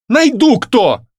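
put-on young woman blowing up at the man, high and loud; exploding. A narrator's reading. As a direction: burst out at him. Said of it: "взорвалась она".

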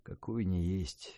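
soft, low, soothing grandma; calm a frightened great-grandson gently; calm reassurance. A narrator's reading. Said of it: "спокойно говорила Софья Сергеевна".

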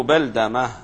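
بلدمة said beldama, fatha on ba and dal; vowels with fatha. Shown as a demonstration. Teacher reading out a narrator's name, بلدمة as beldama with fatha. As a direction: pronounce بلدمة with "a" after both b and d. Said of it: "وإذا قلنا بفتحهما بلدمة".

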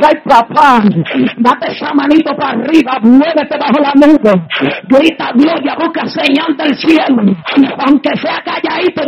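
prayer rising to a tearful cry; fervent prayer. Real, not acted. Preacher guiding the congregation to pray, tearful pleading. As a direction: lead them in prayer, building to a sob.

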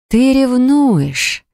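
high, slow triumphant certainty; confident, delighted. Acted. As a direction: say it sure and gleeful. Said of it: "произнесла уверенно". (уверенно и радостно)

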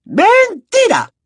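high, slow stretched-out yell; drawn-out shout. Acted. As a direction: draw the word out in fury. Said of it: "gritó la profesora Umbridge".

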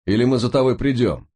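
угрожающий крик выше обычного; крикни угрозу вниз; громкий окрик. A narrator's reading. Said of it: "крикнул майор". (угрожающий крик)

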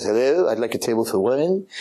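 lightly voiced little French accent. Caller booking a table, mild French accent. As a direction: put on a small mock French voice. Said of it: "put on his little French voice".

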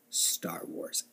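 voiceless conspiratorial whisper. Real, not acted. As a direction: breathe it like a confession. Repeats it in a whisper.

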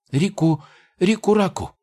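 high, weary goblin gibberish; a worn-out goblin croaking strange words; hoarse tired goblin. Acted. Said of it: "хриплым, уставшим голосом".

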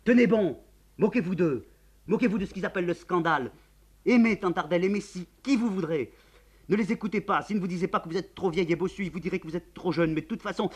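put-on young man calls out loudly through a door; shouting. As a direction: pound on the door and shout your plea. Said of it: "Il crie".

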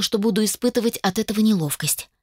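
ordinary delivery

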